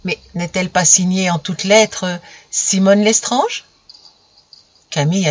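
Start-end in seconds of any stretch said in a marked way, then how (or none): 0.0-3.6 mildly mocking logic. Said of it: "avec une logique narquoise".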